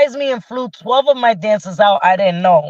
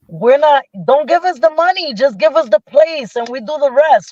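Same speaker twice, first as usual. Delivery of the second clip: higher, emphatic pitch to funders; insistent plea; 5 semitones higher, faster than usual. Retold or imitated. Dance leader asking funders for space, insistent plea. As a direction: press the case, voice lifted.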